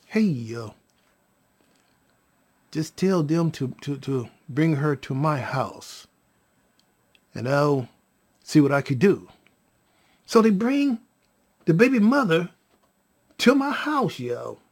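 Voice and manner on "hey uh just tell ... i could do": low, soft, unhurried offer; calm reply. Retold or imitated. Answering the worried caller, calm and low. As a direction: take charge gently, lower and quieter.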